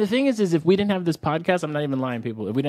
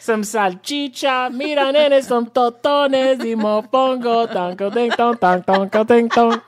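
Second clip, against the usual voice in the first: higher, slow hammed-up Puerto Rican order; Puerto Rican Brooklyn accent; 6 semitones higher, 5 dB louder, slower than usual. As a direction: playfully show off your Nuyorican side, slowly. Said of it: "I'd be like".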